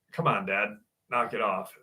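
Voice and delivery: low, soft aside to dad; embarrassed hushing. Retold or imitated. Son stopping dad's matchmaking with doctor, quietly embarrassed. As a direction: quietly tell dad to quit it.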